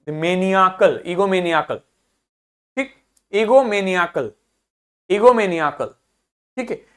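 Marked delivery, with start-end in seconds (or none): 0.1-1.8 मेनियाकल with निया standing out; stress on निया. Shown as a demonstration. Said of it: "आपको निया अलग से सुनाई दे". 3.3-5.9 ईगोमेनियाकल with weight on निया; stress on निया. Shown as a demonstration. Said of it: "आपको निया अलग से सुनाई दे".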